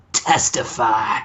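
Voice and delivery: low, slow mock preacher call; lightly voiced wrestler catchphrase; Devon catchphrase. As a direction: drag it out like a sermon. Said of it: "and he says".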